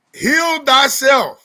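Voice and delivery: slow, dramatic title announcement; announcer voice. Acted. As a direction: announce the title, slowly and big. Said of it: "topic announced".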